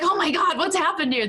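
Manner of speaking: hammed-up dismay; high flustered oh my God; mock panic. Retold panic at bedtime.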